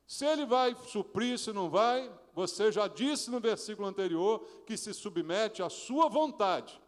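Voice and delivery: ordinary talk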